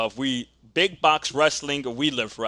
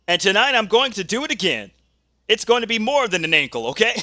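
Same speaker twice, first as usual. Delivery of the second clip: wrestler's threat; 5 semitones higher, much faster than usual. Acted. Wrestler threatens rival in interview.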